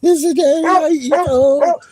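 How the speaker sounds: high, loud squealing dog voice; voicing the dog. Voicing her freaked-out dog seeing daddy, high squeal. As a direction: squeal it like a panicked puppy. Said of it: "She's like".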